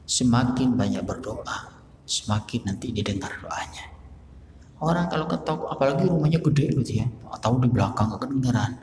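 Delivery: ordinary talk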